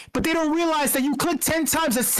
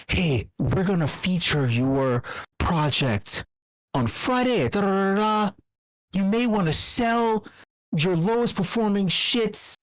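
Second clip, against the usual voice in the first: mock sly insider DM; 6 semitones lower than usual. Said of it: "I'm gonna send a D M".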